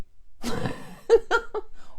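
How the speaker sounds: airy high giggle; high breathy laugh. Real, not acted. Mother laughing at believing in mind control, airy giggle. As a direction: burst out laughing silently.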